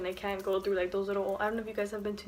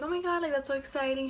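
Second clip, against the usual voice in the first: mock excitement; 5 semitones higher than usual. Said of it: "I was like".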